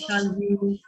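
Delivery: "Salut" ending on the vowel, T left silent; teacher's correction, "Salut" with an open ending; silent final T. Shown as a demonstration. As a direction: model "Salut" with no T at the end. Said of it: "Don't pronounce the T in the end".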